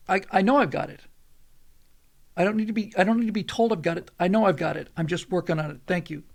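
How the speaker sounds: retold testy comeback; irritated snap. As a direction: push back, mildly exasperated, firm on the first words. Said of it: "I actually lost my temper".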